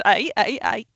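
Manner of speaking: mock geyser calling "ay, ay, ay"; imitated geyser noise. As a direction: go "ay" as the spurting water. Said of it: "shoots out the top and it goes".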